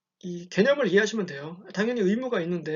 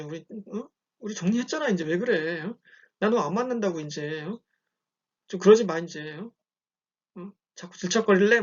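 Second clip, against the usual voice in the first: annoyed brush-off. Retold or imitated. Instructor acting out telling an ex off on the phone, irritated. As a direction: snap at him to stop calling. Teacher brushing off clingy boyfriend.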